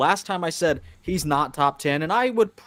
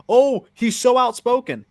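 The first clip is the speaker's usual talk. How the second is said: mocking whiny voice; 8 semitones higher, 5 dB louder than usual. Mocking critics of Ian.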